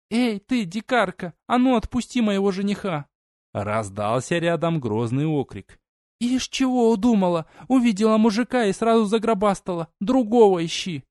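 put-on high, defiant girl's voice; indignant challenge. A narrator's reading. Su to Verona, indignant high challenge. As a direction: tell the rival off, hands off my man. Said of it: "неподдельное возмущение и вызов".

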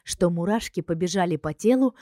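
ordinary talk, nothing marked

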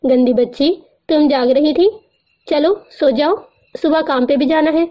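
playful fake scolding of a child; a hint of a stern scolding, put on for fun; mock scolding. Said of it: "مصنوعی خفگی سے ڈانٹتے". (بچی کو مصنوعی خفگی سے ہلکی سی ڈانٹ)

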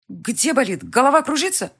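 put-on anxious rising questions to the injured girl; fretting over her, voice climbing; worried questions. A narrator's reading. Heroine asking hurt Elvira where it hurts, alarmed.

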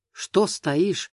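usual speaking voice

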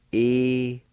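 E-ga-e said slowly and clearly, high; Cherokee syllables. Shown as a demonstration. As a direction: spell out E-ga-e syllable by syllable. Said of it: "First part is pronounced like this".

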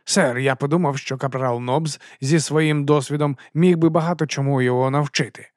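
mildly nervous excuse; a touch of alarm in the explanation; frightened gabble. Acted. Sergeant explains himself to his captain, mildly frightened. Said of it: "перелякано заторохотів Колон".

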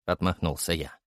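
ordinary delivery

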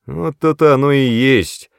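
loud, high angry outburst; angry retort. A narrator's reading. Brother flares up at his sister, angry. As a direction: flare up at her. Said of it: "рассердился Мэтт".

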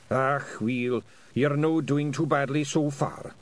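put-on an old Scot softening; nicer tone. A narrator's reading. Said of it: "in a nicer tone of voice".

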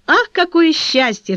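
slow, high, loud cry of joy; overjoyed exclamation; joyful cry. Acted. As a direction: exclaim with delight. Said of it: "вскричала цветочница".

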